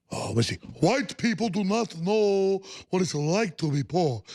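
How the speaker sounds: imitating a Southern accent, loosely; mock Southern drawl. Mocking a senator in a Southern accent. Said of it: "It's more of a Southern voice".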